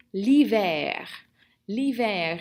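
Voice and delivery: l'hiver said firmly, falling at the end; model pronunciation. Shown as a demonstration. French teacher has the class repeat, l'hiver modelled firmly. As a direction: model l'hiver clearly for learners, pitch dropping to finish. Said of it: "Répétez, s'il vous plaît".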